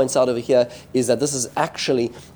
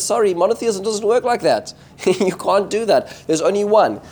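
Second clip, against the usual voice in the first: higher-pitched, mildly acted refusal; imitating a prophet saying no, pitched up; retold firm rebuff; 7 semitones higher than usual. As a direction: turn them down emphatically, as a retold quote. Eliyahu rebuffs the hedging people.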